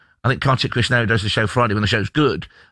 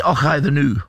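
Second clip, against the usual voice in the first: put-on Scottish accent. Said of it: "Do the Scottish accent".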